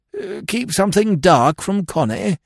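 high-pitched, baffled query; incredulous lord. Acted. Lord astonished at hiding things from Connie, incredulous. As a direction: echo it in disbelief.

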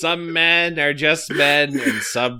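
slow, drawn-out mock-solemn narrator; grand, deliberate pronouncement, played for laughs; Brad Neely impression. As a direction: stretch it out like a portentous narrator. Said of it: "It's totally Brad Neely".

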